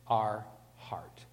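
breathy whisper on the last words. Real, not acted. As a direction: drop to a whisper for weight. Preacher drops to a hush.

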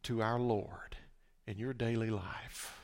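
soft self-questioning. Retold or imitated. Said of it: "I had to ask myself this".

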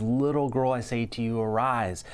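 lightly voiced loving parent; like a parent waking a little daughter; Jesus gently raising the little girl, understated tenderness; tender and gentle. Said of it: "he says it in a tender and gentle, loving".

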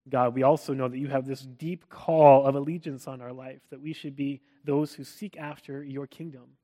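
prayer. Acted. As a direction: pray gently over the people. Leads closing prayer.

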